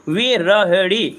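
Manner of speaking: विरहड़ी drawn out very slowly, syllable by syllable; slow spelling out. Shown as a demonstration. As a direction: stretch विरहड़ी slowly for the students. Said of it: "क्या होता है?". (धीमे-धीमे, विरहड़ी को खींचकर बोलना)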